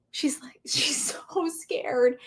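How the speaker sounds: slow whisper with a small laugh. Real, not acted. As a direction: let it drop to a hushed, slow confession. Retelling daughter's fear, whispered.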